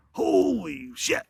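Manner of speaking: high, drawn-out mock exclamation; mock shocked outburst. Drill sergeant spots the foot locker, retold shocked outburst. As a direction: stretch it out in a put-on appalled voice.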